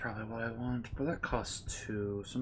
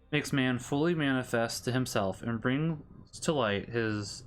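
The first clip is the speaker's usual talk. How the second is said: measured Catechism read-aloud; steady, formal reading of a religious text; formal scripture reading. Real, not acted. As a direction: read doctrine out evenly, phrase by phrase.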